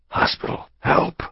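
breathless whisper on the first word, then a sudden high cry; gasped plea. Acted. Collapsing husband begging his wife for help: gasped. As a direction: force it out on the last of his air. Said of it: "He gasped".

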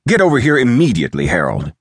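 high, rapid, urgent command; snapped order. A narrator's reading. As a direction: snap an impatient order. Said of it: "he snapped".

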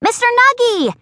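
high glad calling out; happy yell. Acted. Rascal runs toward Mister Nuggy, calling his name gladly. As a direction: call out to him while running. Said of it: "I yell".

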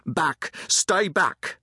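high, urgent command; shouted warning. A narrator's reading. Soldier alone at the door warns the crowd, shouting. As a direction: shout to hold them off. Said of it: "He shouted again".

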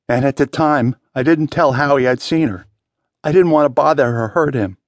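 mildly anguished confession, pitch lifting as it goes. A narrator's reading. Wounded man confessing what he kept from Howie, anguished. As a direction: plead through the painful memory. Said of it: "twisted with sudden anguish".

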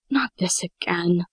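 slow, weary sigh. Acted. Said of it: "Casey sighed".

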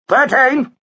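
high, sharp bidding call; called bid. A narrator's reading. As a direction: sing out a bid across the hall. Auctioneer's bidders calling out.

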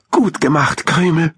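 high-pitched little animal voice; friendly hamster praise. A narrator's reading. Hamster friend congratulates him, high approving voice.

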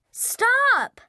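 high-pitched, urgent cry; sharp protest. A narrator's reading. Son stopping dad spoiling the present, sharp protest. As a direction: cut him off with a high exclamation.

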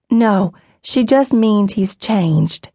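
slow, soothing mother's voice; calm the children down, very slowly; gentle reassurance. Acted.

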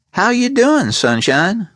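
high, falsely friendly gangster voice; a high, pleasant menace; pleasant gangster Gold. A narrator's reading. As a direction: greet him like a smiling thug. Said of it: "Gold asked pleasantly".

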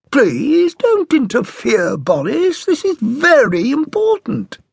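mother telling Boris not to interfere, slow and firm. A narrator's reading. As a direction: hold your ground against the husband. Mother rebuffs father.

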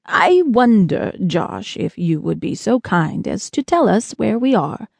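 courteous, mildly formal gentleman; lightly voiced Hat. Lost spaceman asking a boy where they are, courteous. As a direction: begin slowly and ask ever so politely.

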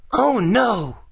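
put-on high-pitched groan of a boy; groaning dismay. A narrator's reading. Gus seeing Billy come, groaning in dismay. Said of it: "groaned Gus".

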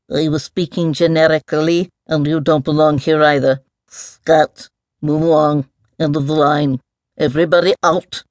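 lightly voiced, brusque mole; a touch of fussy officialdom; officious mole. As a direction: shoo them along like trespassers. Mole dismisses the intruders.

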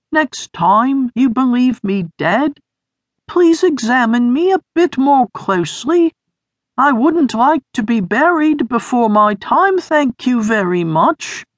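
high, strained wheeze of a burned friend; wheezing. A narrator's reading. Sniff scolding Beamer, high wheezy voice. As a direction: push each word out thin and high. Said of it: "Sniff wheezed".

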